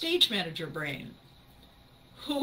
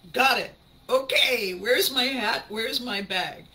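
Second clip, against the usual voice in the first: brisk self-assurance; 3 semitones higher, 6 dB louder than usual. Retold or imitated. Acts repairman briskly leaving for work.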